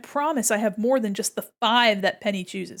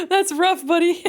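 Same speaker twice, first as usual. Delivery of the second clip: higher, louder, laughing Zuko quote; mock Zuko quote; 8 semitones higher, 6 dB louder than usual. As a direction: belt the meme line through a laugh. Avatar quote in character.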